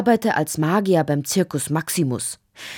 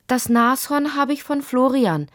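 put-on higher child's voice, eager to explain; quick explaining child; 8 semitones higher than usual. A narrator's reading. Lotti explains the rhinoceros to her father, promptly. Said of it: "erklärte Lotti rasch".

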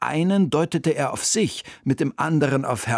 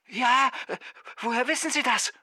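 surprised conductor; 11 semitones higher, 4 dB quieter than usual. Acted.

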